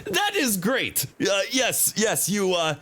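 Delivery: playful character read of a friendly thief-spotter; voiced game character. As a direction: read the character's line with mild sarcasm. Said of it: "love the voice acting".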